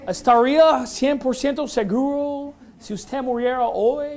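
put-on Spanish with an American accent, English vowels; Pastor Anderson gringo Spanish. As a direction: read the Spanish like a gringo would. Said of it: "he speaks it like a gringo".

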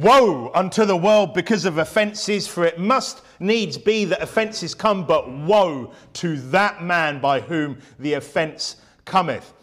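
slow, weighty scripture reading. Acted. Preacher reading the verse to his congregation, slow and weighty. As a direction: read the verse slowly, with gravity.

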